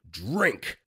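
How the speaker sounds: drawn-out commanding order. Retold or imitated. Kid ordering a classmate to drink spat-in milk, commanding. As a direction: put on a mildly imperious command. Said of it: "in a very commanding tone".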